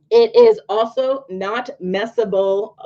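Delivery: slowly weighing each word; careful slow delivery; slow, deliberate. Real, not acted. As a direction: stretch it out as you coin a word. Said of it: "I don't think that's a word".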